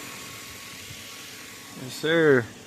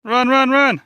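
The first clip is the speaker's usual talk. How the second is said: excited yell; 8 semitones higher, 6 dB louder, slower than usual. Real, not acted. Urgent sledding moment, yelling.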